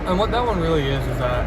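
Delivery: talking while chewing gum; words round a piece of gum. Real, not acted. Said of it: "sorry, I have gum in my mouth".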